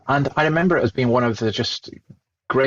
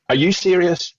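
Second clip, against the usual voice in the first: raised pitch, mock-incredulous challenge; incredulous comeback; 4 semitones higher than usual. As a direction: retell a disbelieving put-down, pitched up. Mocking comeback retold to debate opponent.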